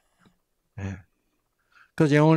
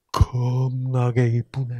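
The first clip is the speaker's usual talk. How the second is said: Jeolla man's compliment; slower than usual. Retold or imitated. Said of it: "전라도 남자들이 ... 뭐라 그래요?".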